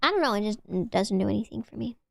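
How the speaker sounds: unvoiced whisper aside. Real, not acted. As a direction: drop it to a whisper.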